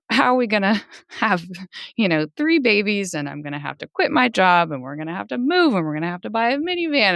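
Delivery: mildly panicked list, pitch jumping up; retold panic. Mother retelling her worries about three babies, mildly panicked. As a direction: lightly mimic racing worries, piling up. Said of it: "just thinking of everything and panicking".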